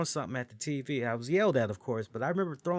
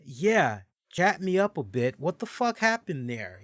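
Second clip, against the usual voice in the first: eager demand; 4 semitones higher, 5 dB louder than usual. Retold or imitated. Host voicing fans asking questions.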